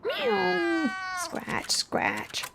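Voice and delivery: cat mewing and scratching; scuffling cat. A narrator's reading. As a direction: mew then whispered scratches. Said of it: "scuffled Simpkin".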